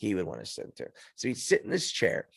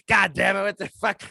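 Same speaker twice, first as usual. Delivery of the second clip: dad cursing; 7 semitones higher, 5 dB louder than usual. Retold or imitated.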